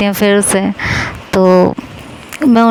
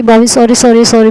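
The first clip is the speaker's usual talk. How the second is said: repeating "sorry" louder and more urgently; louder pleading sorry; 2 semitones higher, 5 dB louder than usual. Retold or imitated. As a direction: beg harder, voice up. Begging angry sister-in-law for forgiveness. (ज़ोर से गिड़गिड़ाते हुए माफ़ी)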